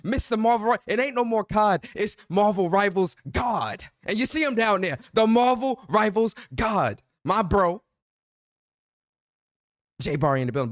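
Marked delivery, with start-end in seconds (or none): 0.0-7.8 bigging up your bro like a ring announcer; hyped arena-style introduction of his co-host; hype-man introduction. Acted.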